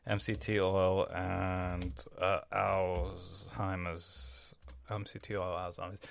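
slow, spelled out while typing into search; slow read-along of a search query. Shown as a demonstration. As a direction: drag each word out as you type it. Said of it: "let's check it right now".

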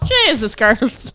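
put-on slow, weary "girls" like a tired mum; exasperated mum. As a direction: sigh it out like a fed-up mother. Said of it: "I'm going".

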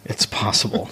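whispered aside. Acted. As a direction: whisper it, coy. Coy evasive answer, then repeated.

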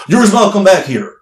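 high-voiced retold summons; judge calling out. Judge calling performer back, retold.

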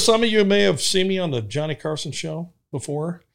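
mock showman intro. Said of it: "he goes".

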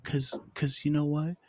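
smooth, measured creepy-seductive voice. Pretend. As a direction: lightly put on a creepy, seductive voice. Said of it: "I'm using this creepy voice".

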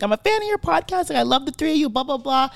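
a hint of an eager fan; lightly voiced fan girl. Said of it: "She's like".

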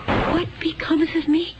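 frightened, tearful question; near tears. Acted. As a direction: voice catching with a sob. Fearing for her own fate.

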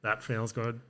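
flat, mechanical robot voice. Pretend. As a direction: say it like a machine. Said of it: "That's my robot voice".

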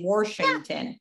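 Washington with an R, Warsh-ington; Pittsburgh Washington with an R; warshington. Shown as a demonstration. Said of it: "Like they say".

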